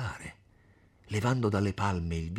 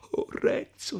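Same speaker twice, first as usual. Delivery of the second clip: through sobs; 3 dB louder, slower than usual. Acted. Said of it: "a stento tra i singhiozzi".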